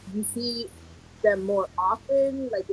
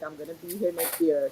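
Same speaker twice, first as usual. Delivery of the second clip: softer, settled teacher's answer; retold reassurance; 3 semitones lower, 7 dB quieter than usual. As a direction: quietly reassure the pupil. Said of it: "And I was like".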